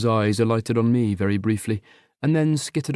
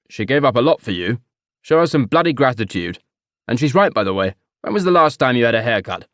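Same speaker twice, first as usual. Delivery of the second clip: snapping father; 5 dB louder than usual. Acted. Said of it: "snapped David".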